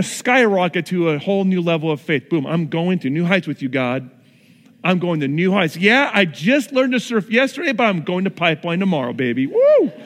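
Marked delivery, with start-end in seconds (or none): 2.5-9.9 cocky newbie. Retold or imitated. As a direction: brag like a surfer who just stood up once. Overconfident beginner brags.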